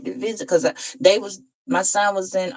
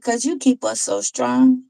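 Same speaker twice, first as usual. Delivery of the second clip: higher, lightly voiced child; little boy's voice; 5 semitones higher than usual. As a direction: answer as a small boy, pitched up. Retells a little boy's answer.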